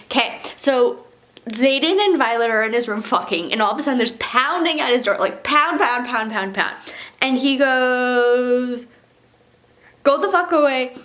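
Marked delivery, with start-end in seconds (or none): 1.5-8.9 lively reading of the novel's scene; story narration. Acted. Reading the chapter to viewers, in a brisk narration voice. 10.0-11.0 high, loud angry snarl. Acted. The hero snarling at someone pounding on his door, in a high, loud angry voice. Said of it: "Zayden snarls".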